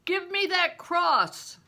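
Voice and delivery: loud, high, slow demand. A narrator's reading. Bear demanding Crispin's cross, loud and forceful. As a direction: insist on having it.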